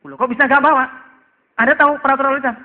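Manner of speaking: tiruan polisi menginterogasi, tinggi dan lantang; polisi menegur. Acted. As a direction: cecar pelanggar dengan suara naik. (peran polisi yang menegur keras)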